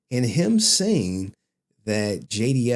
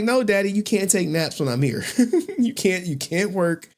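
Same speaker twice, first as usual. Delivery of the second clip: daughter's voice; 7 semitones higher than usual. Retold or imitated. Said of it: "She's like".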